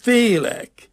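very high, loud cry of fear; frightened wail. A narrator's reading. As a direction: wail it out like a scared child. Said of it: "bőgni kezdett".

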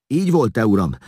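tearful voice. A narrator's reading. Vigilász begging Edekon to confirm it, high and tearful. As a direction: wail the question, pleading for confirmation. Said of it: "kérdezte síró hangon Vigilász".

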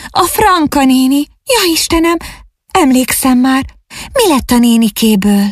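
high, rising frightened calls; anxious cry. A narrator's reading. Ágnes fearing for her aunt Franka, high anxious cries. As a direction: let the panic climb as she remembers. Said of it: "kiáltott felietten".

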